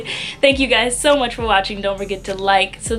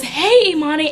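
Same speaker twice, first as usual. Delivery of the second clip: higher, mildly raised imitated call; mock loud greeting; 6 semitones higher than usual. Man hailing her in the library, mock loud call. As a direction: mimic his too-loud hello with some restraint. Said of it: "he's being so loud".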